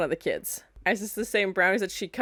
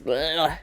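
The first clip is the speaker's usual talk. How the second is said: disgusted blech; 5 semitones lower than usual. Real, not acted. Disgust at Hellraisers.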